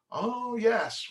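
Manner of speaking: imitated microbiologist. Microbiologist looking under the microscope, mock recognition.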